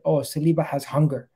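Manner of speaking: lightly put-on French accent; a hint of a French footballer's accent; Patrice Evra accent. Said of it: "That's my Patrice Evra, uh, accent".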